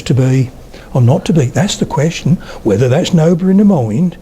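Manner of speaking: lightly imitated Suffolk delivery; Hamlet's speech in a mild Suffolk accent. Retelling an actor's Hamlet on set, in a Suffolk accent. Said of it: "To Be or Not To Be in a Suffolk accent".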